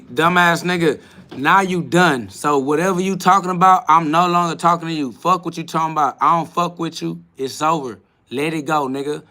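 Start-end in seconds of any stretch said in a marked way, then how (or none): 0.0-7.2 louder, heated telling-off of a troll; raised voice, dismissing a viewer for good; angry outburst. Real, not acted. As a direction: cut him off hard, you're done with him. Cursing out a troll on live.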